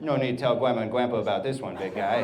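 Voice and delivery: quick mock speech impediment; put-on childish mispronunciation, said briskly; baby talk. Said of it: "it wasn't baby talk".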